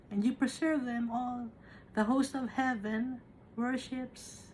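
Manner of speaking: slow, solemn Bible reading; scripture reading. Acted. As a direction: read the verses slowly and reverently. Preacher reads scripture aloud.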